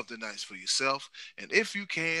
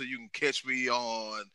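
ordinary delivery

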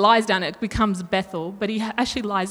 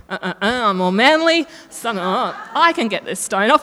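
hammed-up macho bravado, louder; macho Jacob; 4 dB louder than usual. Jacob boasting in front of Rachel, mock manly and loud. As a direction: puff up like a show-off flexing.

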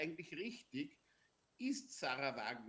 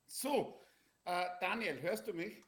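calling out; 2 semitones higher, 4 dB louder than usual. Real, not acted. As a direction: raise the voice to be heard. Checking the connection on a call.

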